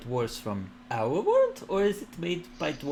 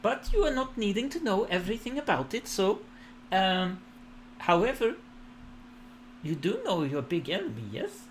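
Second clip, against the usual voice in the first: much higher, lilting goddess; warm serene goddess voice; 7 semitones higher than usual. Acted. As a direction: speak as an all-knowing deity. Goddess speech, high voice.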